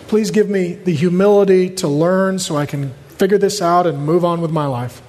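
acted sincere prayer; humble prayer. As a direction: ask God humbly, without any complaint. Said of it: "Stopping to say".

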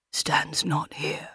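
slow, soft menace close to the ear; almost whisper it to the victim, slowly; near whisper. A narrator's reading. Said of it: "almost whispering in her ear".

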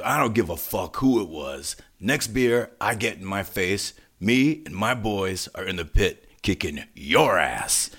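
slow, measured imitation of a tough warning; retold threat. Singer warning the crowd about next beer, measured retold threat. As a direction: lay out the mock threat deliberately. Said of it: "And he goes".

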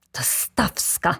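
slow, venomous naming; drawn-out loathing; hateful. A narrator's reading. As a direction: spit out the name with hatred. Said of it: "płomień nienawiści, jaki błysnął w oczach".

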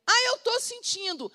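a light mock whine of someone who only goes by feelings; mocking whiny believer. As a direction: mimic a self-pitying believer. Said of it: "mocking a whiny believer".

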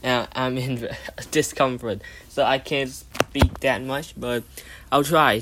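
talking with sore new braces. Real, not acted. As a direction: speak carefully around painful braces. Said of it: "it hurts like hell right now".

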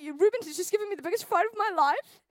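high-pitched panicked complaint to mum, acted out; freaking out. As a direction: wail it up high like a frantic daughter on the phone. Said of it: "I was freaking out".

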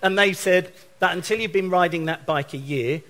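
can't hold back the laughter; laughing through words. Real, not acted. Laughing while retelling insurer's words.

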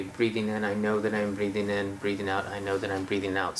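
calm guided breath. Shown as a demonstration. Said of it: "give yourself little moments".

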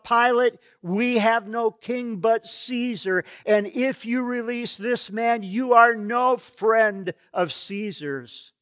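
loud, high, threatening yell; priest yelling. Acted. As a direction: bark the warning at Pilate. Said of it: "One of the priests yelled out".

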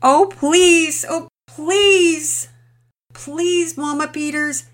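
high, loud, tearful pleading confession; emotional breakdown. Acted. Mother confessing her fault to neighbour, tearful and pleading. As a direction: pour it out on the edge of sobbing. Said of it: "trailed off in emotion".

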